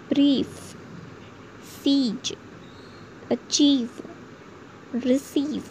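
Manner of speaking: long ई in ब्रीफ, सीज, अचीव, रिसीव. Shown as a demonstration. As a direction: stretch the ee in each word, one at a time. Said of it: "ई दीर्घ में होता है". (ब्रीफ, सीज, अचीव, रिसीव में दीर्घ ई)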